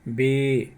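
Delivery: "बे" with A sounded as ए; ए sound demo. Shown as a demonstration. Teacher shows learners how it is said, ए-sound demo. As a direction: model "बे" with an ay vowel. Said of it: "ऐसा बोलेंगे".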